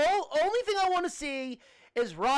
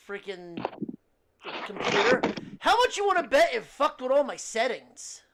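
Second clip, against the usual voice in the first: distant mic, like another room; 3 semitones lower, 4 dB louder than usual. Real, not acted. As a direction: sound far off in the next room. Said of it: "sound like you're in another room".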